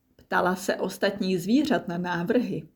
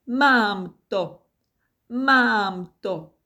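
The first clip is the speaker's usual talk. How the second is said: louder, higher cry of discovery; excited shout; 3 semitones higher, 6 dB louder, much slower than usual. A narrator's reading. Nimble just thought of the perfect surprise, shouting excitedly. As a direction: blurt it out, thrilled. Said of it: "vykřikl Nimble".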